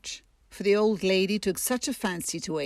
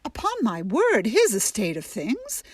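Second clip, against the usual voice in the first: scandalised surprise; 2 semitones higher than usual. Acted. Aunt March finds bride unready.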